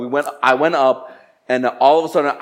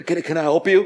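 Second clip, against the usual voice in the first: hesitant, slightly higher retold question; sheepish; 4 semitones higher than usual. Manager to upset customer, mildly sheepish. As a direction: stammer a meek offer of help. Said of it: "comes out really sheepishly".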